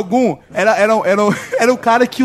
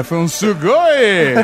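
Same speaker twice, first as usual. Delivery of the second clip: slow, drawn-out anime fan exclamation; excited anime fan; much slower than usual. Pretend. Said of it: "Não foi um sugoi".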